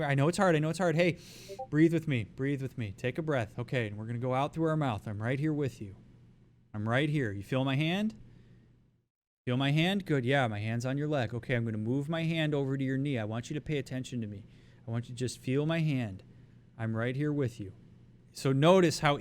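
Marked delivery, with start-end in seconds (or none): 0.0-2.2 quick and urgent, keeping up with their panic; matching their pace. Shown as a demonstration. Coach matching a panicking person's fast pace, urgent. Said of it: "you match their pacing". 2.4-17.7 slowing down. Shown as a demonstration. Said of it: "you match their pacing".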